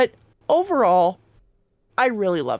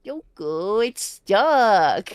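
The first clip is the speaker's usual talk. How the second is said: Morgana voice; much slower than usual. Retold or imitated. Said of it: "Explain the Morgana voice".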